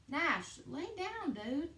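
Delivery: high, sharp call to the dog; high pitched command to the dog. Real, not acted. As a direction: tell the dog off mid-contraction. Calling to the dog in car.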